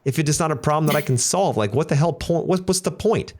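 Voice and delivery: rising, incredulous mock protest; exasperated disbelief. Husband baffled by wife wanting only to listen, incredulous. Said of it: "And I'm like".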